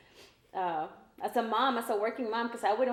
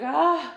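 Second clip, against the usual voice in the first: frustrated groan; 6 semitones higher, 9 dB louder than usual. Retold or imitated. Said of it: "you're like".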